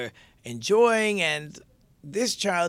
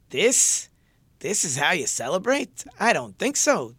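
incredulous, raised mock objection; scornful challenge; 3 semitones higher, 3 dB louder than usual. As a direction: question it in disbelief, then dismiss it. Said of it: "and he says".

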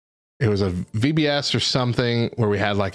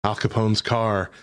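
Parody singer's joke voice. Retold or imitated. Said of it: "a parody singer ... made a joke about it, saying".

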